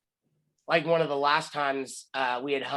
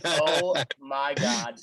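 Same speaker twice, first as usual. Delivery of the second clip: stunned; much slower than usual. Retold or imitated. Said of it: "I was just like".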